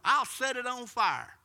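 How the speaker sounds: high, loud threat; threatening witch. Retold or imitated. Witch threatening the brass pineapple, loud and high. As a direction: declare the threat loudly.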